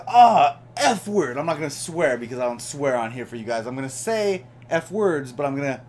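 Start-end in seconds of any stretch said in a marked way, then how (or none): 0.1-1.4 retold yelp. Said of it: "and he's like".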